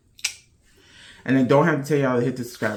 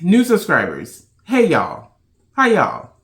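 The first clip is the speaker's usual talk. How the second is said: excited welcome; 4 semitones higher, 5 dB louder than usual. Real, not acted. Welcoming new subscribers.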